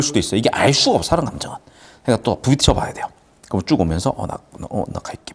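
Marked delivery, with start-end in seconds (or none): 4.2-5.3 hesitant, whispered and fading; stammering whisper. Retold or imitated. An awkward boy excuses himself from the girl, whispering. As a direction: stumble out the words and slip away. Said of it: "막 이러면서".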